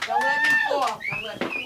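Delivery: squeaky high plea, half joking; mock panic. Real, not acted. Nervous sister stepping on stage, squealing high. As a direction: squeal it way up high like you're slipping. Climbing onto stage, scared.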